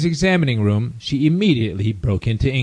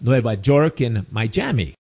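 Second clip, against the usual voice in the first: put-on Latin-accented cities, Miami as "my-JAH-mee"; imitating Latin speakers. Latins repeating US city names, imitated Latin accent. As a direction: say Chicago, Nueva York, Miami as a Latin would. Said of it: "you'll hear Latins down here saying".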